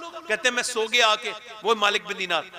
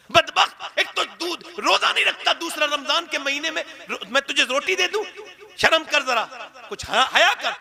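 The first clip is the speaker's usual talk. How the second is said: sharp, raised scolding; scolding mother; 4 semitones higher than usual. Retold or imitated. Mother rebuking her drunk son, sharp scolding. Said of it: "आके बोला माँ मुझे खाना दे दे".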